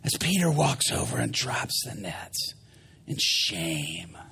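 low, soft, sinking delivery; downcast narration. A narrator's reading. Preacher narrating Peter dropping nets, downcast. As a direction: let the voice drop away.

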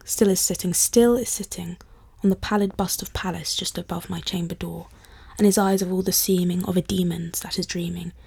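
measured, solemn poetry recital; poem reading. Acted. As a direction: read it like a dark Victorian poem. Finishes reading The Raven.

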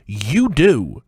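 usual speaking voice

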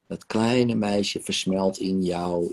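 guided meditation. Acted. Therapist guiding client through rebirth regression, calm meditation voice. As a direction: lead her gently back through her birth.

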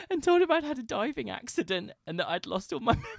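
giggling as the words come out; laughing. Real, not acted. Confessing the diving-accident lie to a friend, laughing.

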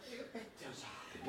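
slow, low, hushed remark; low-key deadpan aside; quiet aside. Acted. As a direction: confide it slowly and softly. Aside to audience, said twice.

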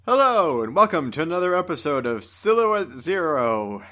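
mock host intro. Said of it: "I was trying to do the introduction".

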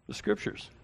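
breathy whisper, hushed; whispered emphasis. Real, not acted. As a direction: hush it for weight. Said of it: "emphatic repetition".

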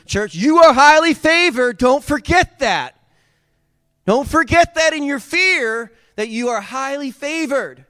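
high, loud exhortation to the church; impassioned preaching. Real, not acted. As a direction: cry it out to the congregation, stretching the phrases.

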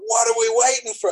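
rallying cry, only partly shouted; mild mock scream. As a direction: imitate a rough trainer yelling. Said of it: "he's, like, screaming".

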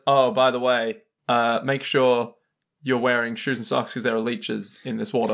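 understated, casual warning; calm, offhand. Retold or imitated. Jotaro warning Josuke about leeches, acted calm. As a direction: drop it in calmly, unhurried. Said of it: "Jotaro calmly goes".

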